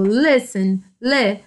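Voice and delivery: "listen" with the first syllable LIS stressed, then isolated. Shown as a demonstration. Teacher showing students the stronger syllable, stressed "LIS" in "listen". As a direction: lean on the opening syllable of "listen". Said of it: "o li é o mais forte".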